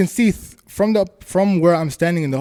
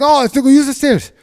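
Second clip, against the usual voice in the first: retold urging; 10 semitones higher, 4 dB louder than usual. Retold urging toward stairs.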